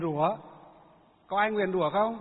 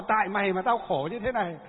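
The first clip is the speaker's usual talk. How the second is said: mock angry; 3 dB louder than usual. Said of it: "nó thì nó bảo".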